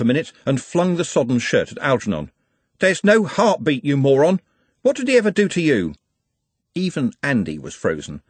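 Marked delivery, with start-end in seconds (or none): 2.8-5.9 high, anguished angry outburst; raging. A narrator's reading. Trev accusing Algernon over his friend's stopped heart, raging. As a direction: hurl it as a furious accusation. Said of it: "No one had ever seen Trev like it".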